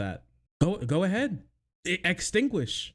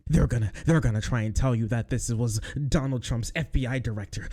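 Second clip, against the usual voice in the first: imitating; 7 semitones lower than usual. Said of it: "He said basically".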